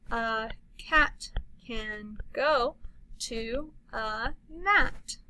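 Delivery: slow, word-by-word reading; slow modeled reading. Shown as a demonstration. Teacher modeling a sentence, slowly.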